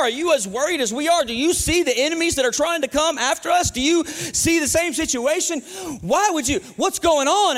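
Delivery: lightly acted, increasingly agitated questioning of David; bewildered cavemates. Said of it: "everybody in the cave looked over at David like".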